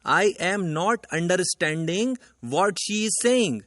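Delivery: the wrong example sentence read out very slowly. Shown as a demonstration. Teacher slowly reading out the wrong sentence to the class. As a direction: spell out each word of the wrong sentence slowly. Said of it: "sentence है".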